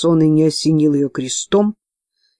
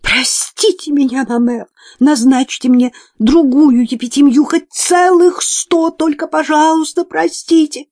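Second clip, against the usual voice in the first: pleading nun; 10 semitones higher, 5 dB louder than usual. A narrator's reading. Nun begs forgiveness kneeling.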